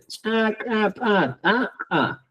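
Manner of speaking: "Chacapataja" very slow with breath after each stop; aspirated stops. Shown as a demonstration. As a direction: puff air after ch, k, p, t in "Chacapataja". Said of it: "¿Te das cuenta?".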